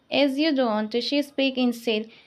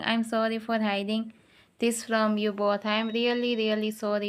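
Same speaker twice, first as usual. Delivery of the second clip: softer, a touch tearful and broken; shattered crying voice; 3 dB quieter than usual. Acted. Guilty cousin apologizing after crying, softly broken voice. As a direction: cousin apologizing through tears, voice cracked and soft. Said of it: "with a shattered voice because of crying".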